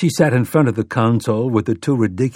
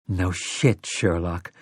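softer, dry sarcasm; dry muttered thought; 5 semitones lower, 6 dB quieter, slower than usual. A narrator's reading. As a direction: toss it off under the breath. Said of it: "Susanna thought".

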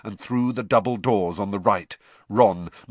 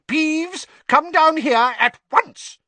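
high, much louder stern teacher; strict deputy headmistress shouting up at a poltergeist; McGonagall angry; 8 dB louder, slower than usual. Acted. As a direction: order him down furiously. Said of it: "yelled an angry voice".

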